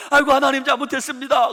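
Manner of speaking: high, loud pleading wail; mock pained cry. Patient on the emergency cart begging God, imitated loud wail. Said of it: "실려오면서".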